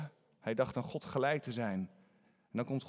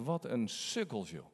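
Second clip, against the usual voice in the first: scoffing aside; 3 semitones lower, 5 dB quieter than usual. Retold or imitated. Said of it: "dat je dit verhaal leest en je".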